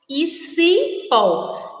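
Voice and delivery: "cipó" slowly, ci, then pó; slow teacher's "cipó"; reading out by syllables. Shown as a demonstration. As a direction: draw out both syllables of "cipó". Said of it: "vamos ler novamente as três palavras".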